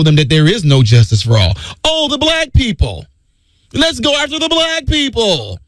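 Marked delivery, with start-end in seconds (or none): 1.8-5.6 a hint of a sly higher schemer voice; scheming enemy. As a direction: plot it like the enemy.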